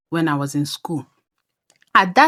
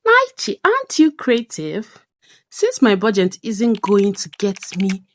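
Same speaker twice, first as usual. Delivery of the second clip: talking to herself; 3 semitones higher than usual. Retold or imitated. Crafter talking herself into making a necklace, upbeat. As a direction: coax yourself into a bright idea. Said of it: "I asked myself".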